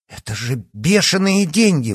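indignant. A narrator's reading. Yana outraged at the doctor's price. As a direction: protest the price. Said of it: "возмутилась она".

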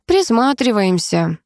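slow, unhurried drawl of a lazy shopper; lazily, slowly dragging the word out; lazy reply. Acted. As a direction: let the word stretch out, in no hurry. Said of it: "лениво отозвался усач".

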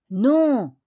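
loud, firm chorus no; shouted no. Acted. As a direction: answer as one, loud and firm. Friends answer all together.

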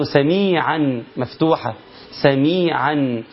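سميعًا said slowly with tanween an; slow careful سميعًا; slow tanween reading; recited slowly. Shown as a demonstration. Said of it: "دي نقف عليها نقول إيه؟".

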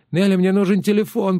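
moaning plea. A narrator's reading. Woman in turban begs Nelli for a phone, moaning. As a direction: moan it out to Nelli, desperate. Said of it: "простонала та".

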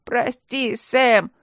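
high, loud whimpered sorry; whiny apology. A narrator's reading. The slapped robber apologizes to Sam, high loud whine. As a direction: yelp sorry after the slap.

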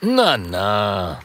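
calm, soothing doctor; doctor dragon calming a frightened patient; reassuring. Acted. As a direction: settle him down gently. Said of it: "beruhigt ihn der Medizindrache".

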